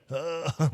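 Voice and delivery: imitated grunt of a toothless man. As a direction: grunt like he has no teeth. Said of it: "like, no teeth".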